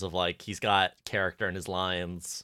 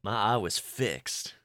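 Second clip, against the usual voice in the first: put-on southern accent. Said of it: "I'm not very good at doing a southern accent".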